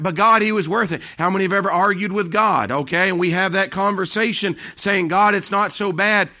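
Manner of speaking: high, loud preacher's call; forceful preaching. Acted. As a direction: preach it out with full force to the congregation. Preaching at full force again.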